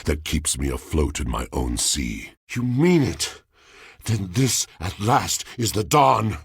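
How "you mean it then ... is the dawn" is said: rising high with eager disbelief; sudden hope. Acted. Lonely spirit hears the traveler may help, eager and high. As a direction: let hope break through, much higher.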